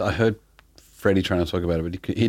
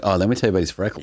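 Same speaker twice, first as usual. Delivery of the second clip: laughing gush; much faster than usual. Retold or imitated. Mock gushing about Cam.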